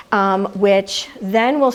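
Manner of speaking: usual speaking voice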